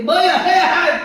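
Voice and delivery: loud high scolding shout; playful retold yell; mock yell. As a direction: bark it at her husband. Wife yelling at husband.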